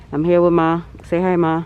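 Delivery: muffled behind a mask; talking through a mask; through a face mask. Real, not acted. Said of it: "it's 'cause I have a mask on".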